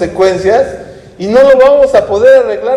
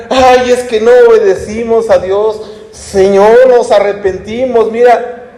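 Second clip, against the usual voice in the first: higher, lightly acted penitent lament; mock tearful repentance; 4 semitones higher than usual. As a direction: imitate a repentant people pleading to God. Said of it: "No estaban llorando y que dijeran". (lamento fingido de arrepentimiento)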